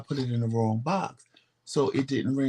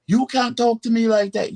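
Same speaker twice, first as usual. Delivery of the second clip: indignant protest; 7 semitones higher, 6 dB louder than usual. Retold or imitated. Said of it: "the way you was talking to her".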